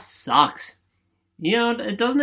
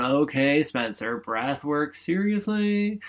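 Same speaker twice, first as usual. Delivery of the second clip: eye-rolling skeptic; slower than usual. Pretend. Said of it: "rolling your eyes going".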